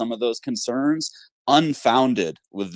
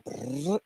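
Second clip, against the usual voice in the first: drum roll; 4 semitones higher, 9 dB quieter than usual. Pretend. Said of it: "drum roll".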